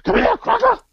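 zombie-like. Retold or imitated. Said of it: "runs out like Walking Dead".

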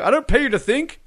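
half-laughing snap at a dim assistant; angry boss. Retold or imitated. Q snapping at his assistant.

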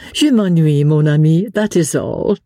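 high, careless society lady; airy shrug. A narrator's reading. Lady admits boredom to her friend, airy and high. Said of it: "with a shrug of the shoulders".

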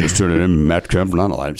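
low tipsy play-by-play impression; Ross Porter. Host tries a new player's name, low drunk announcer voice. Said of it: "a Ross Porter impression".

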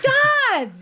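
high-pitched, loud, laughing disbelief; laughing exasperation. Retold or imitated. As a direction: squeal it at him through laughter. Exasperated retort to dad's joke.

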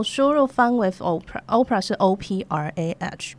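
slow letter-by-letter spelling. Shown as a demonstration. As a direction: spell each letter slowly. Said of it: "你的Oprah怎么拼".

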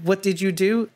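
mock-incredulous question; mocking quote. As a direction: echo the line as if it's absurd. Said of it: "is that the first thing you say to somebody?".

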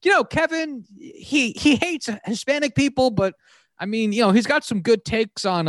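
imitating a colleague who shrugs it all away; mock excusing. Voicing colleagues excusing a bigot.

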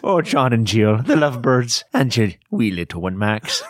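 playful mock Irish brogue; lightly hammed Irish lilt. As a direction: coo over the family in put-on Irish. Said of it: "with a nice Irish brogue".

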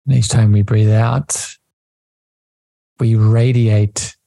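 slow meditation voice with long pauses; unhurried, spacious delivery, lingering on key words; guided meditation. Acted. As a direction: guide listeners slowly, phrase by phrase, into the breath.

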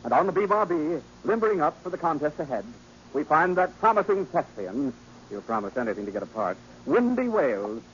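brisk, lively announcer read; radio announcer. A narrator's reading. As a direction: hurry the listener into the scene. Announcer narrates the next scene.

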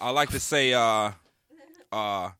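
Obama impression. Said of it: "bad Barack impersonation".

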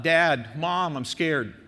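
mild retold yell for help; mock child's yell. Small child calls parents at night, mock scared yell. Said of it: "you'd hear them yell out".

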